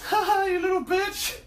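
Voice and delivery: high, laughing taunt; mocking laugh. Kid on a bike laughing and taunting Jack. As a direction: cackle the insult at him. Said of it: "starts cracking up laughing and goes".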